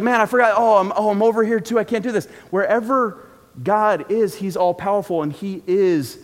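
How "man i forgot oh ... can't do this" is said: louder, higher mock panic of an overstretched God; flustered God. Preacher joking to the congregation, a louder, higher mock-frazzled God. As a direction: ham up a frazzled God juggling everything. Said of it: "he's not sitting there like".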